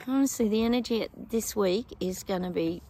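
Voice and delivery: talking through a yawn. Real, not acted. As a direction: yawn mid sentence. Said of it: "Sorry about the yawning".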